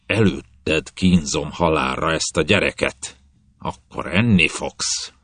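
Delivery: slow, understated hiss; captain hissing a threat at his prisoner. Acted. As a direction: let the threat seep out slowly.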